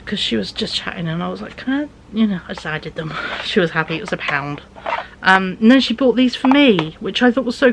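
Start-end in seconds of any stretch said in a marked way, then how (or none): 1.6-1.9 pleading little ask. Retold or imitated. Asking mum in the shop.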